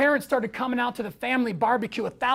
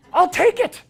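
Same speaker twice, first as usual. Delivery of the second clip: laughing; 8 semitones higher, 7 dB louder than usual. Real, not acted. Laughing at his own wish.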